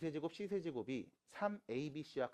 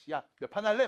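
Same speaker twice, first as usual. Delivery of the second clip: louder, higher buddy call; friendly mock shout; 8 semitones higher, 12 dB louder than usual. Teacher imagines greeting students, loudly friendly. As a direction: hail a student like a pal. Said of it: "막 해주고 싶지".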